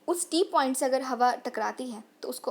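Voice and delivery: usual speaking voice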